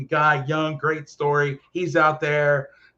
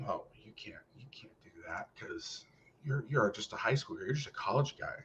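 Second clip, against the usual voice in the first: dismissive; 8 semitones lower, 14 dB quieter than usual. Retold or imitated. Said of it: "that are told".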